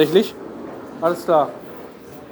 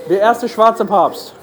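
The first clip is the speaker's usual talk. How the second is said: laughing; much slower than usual. Real, not acted. Lacht über Papst-Avatar.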